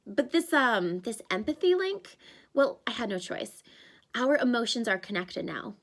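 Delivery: put-on a panicky young satyr; Grover's voice. Grover apologizes.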